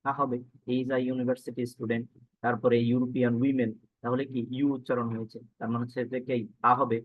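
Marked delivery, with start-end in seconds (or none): 0.7-2.0 slow example read. Shown as a demonstration. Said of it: "teacher gives the corrected example".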